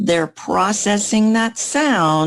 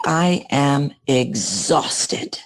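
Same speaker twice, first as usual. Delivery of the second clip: tired; 3 semitones lower, much slower than usual. Retold or imitated. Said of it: "every single time they say".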